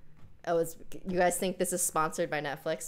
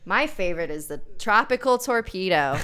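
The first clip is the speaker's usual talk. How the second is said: mock ad read; 4 dB louder than usual. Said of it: "That came off natural, right?".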